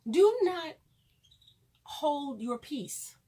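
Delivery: slow, drawn-out preacher's wedding line; hammed-up minister asking for objections; mock officiant. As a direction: intone it like a solemn officiant.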